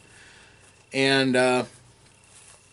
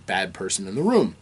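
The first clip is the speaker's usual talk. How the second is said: normal talking voice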